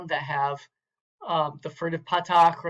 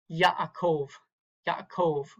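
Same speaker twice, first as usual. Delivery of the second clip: "Yaakov" with the weight on "kov"; final-syllable stress; much slower than usual. Shown as a demonstration. Teacher modelling Hebrew accent, "Yaakov" stressed at the end. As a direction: lean on the last syllable of "Yaakov". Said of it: "it's gonna be on the last syllable".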